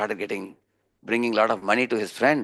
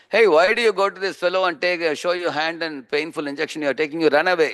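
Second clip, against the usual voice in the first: higher, insistent retold challenge; lightly acted friend protesting, pitched up; urgent remonstrating; 5 semitones higher than usual. Friend urging the man to run away from injections, remonstrating.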